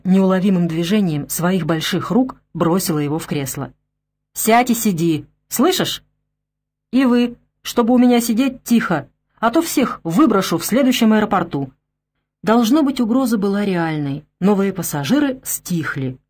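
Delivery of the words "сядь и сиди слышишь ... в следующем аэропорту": louder, stern warning; stern threat. Acted. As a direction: lay down the law firmly. Stewardess threatens passengers. (строгая угроза)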